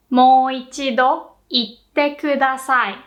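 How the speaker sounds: Mo ichido itte kudasai in one flowing line; now say Mo ichido itte kudasai as one phrase; natural-pace repeat. Shown as a demonstration. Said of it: "you'd say".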